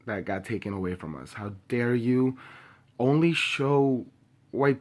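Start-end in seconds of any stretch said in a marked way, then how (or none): 1.3-4.8 slow, louder, higher accusing demand; angry. Real, not acted. Calling out the media's coverage, slow angry accusation. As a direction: spell out each word in outrage. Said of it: "I'm angry, I'm pissed".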